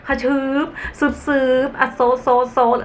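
playful high mouth sounds while patting; sound effects. Shown as a demonstration. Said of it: "ฉันชอบทำ เวลาทำแล้วก็แบบ". (เสียงประกอบตอนตบคุชชั่น)

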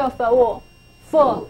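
for五 as f plus short oo, blended; for五 spoken as separate sounds, then one syllable; sounding out. Shown as a demonstration. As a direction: join f and oo into the start of foot. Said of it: "O O常常发作五".

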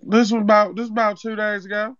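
put-on Zeke accent; Zeke-style street accent. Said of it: "why is he talking like Zeke off power".

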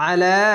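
"আলা" starting on a squeezed-throat আ; recited "আলা", heavy ayn and long লা; thick throaty ayn. Shown as a demonstration. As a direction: press the throat for আ, then stretch লা. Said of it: "আইনটিকে মোটা করে গলা চিপে পড়বেন".

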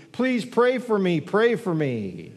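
put-on a child's plea, stretched slow; a kid begging the whole church, drawn out; child calling out. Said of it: "the little one called loudly".

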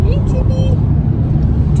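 high, very slow sing-song pet voice; talking to the dog. Real, not acted. Greeting the dog.

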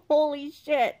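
a sudden panicked oh no; shocked exclamation. Retold or imitated. Shocked seeing tall bearded man.

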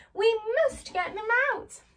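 high, loud, urgent call; rally the others. Acted. Scarecrow urges Tin Man to rescue friends, loud.

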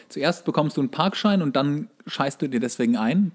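ordinary delivery

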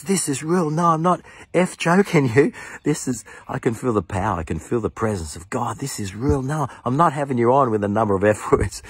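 overwhelmed with wonder and swearing; amazed exclamation. Retold or imitated. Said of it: "He goes".

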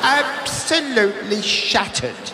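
slow, drawn-out weary sigh of a phrase; mock weary wife. Comic echoing his wife going to bed, slow mock weariness. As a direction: stretch it like she's dead on her feet. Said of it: "she says".

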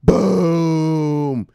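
loud, high shouted boom; hype shout. Real, not acted. Host celebrating the BMW contract, loud shouted boom. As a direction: hit it like an explosion.

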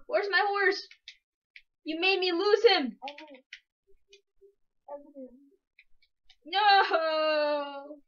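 beg, close to crying; upset pleading. Real, not acted. Upset searching for lost horse.

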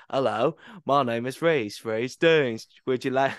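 a light Southern US accent, kid imitating Forrest Gump. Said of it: "obviously, the Southern accent".

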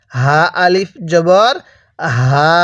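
slow demo of হা with sound in the mouth; breathy throat h. Shown as a demonstration. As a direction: show the learner the হা sound slowly. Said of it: "দেখুন, আমি এই হাটা কিভাবে উচ্চারণ করছি".

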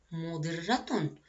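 مضرة drawn out slowly, final tanween sounded clearly as -tun; slow tanween demo. Shown as a demonstration. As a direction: stretch مضرة and let the ending ring. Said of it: "وما هو نوع التنوين". (مدّ كلمة مضرة ببطء وإظهار التنوين)

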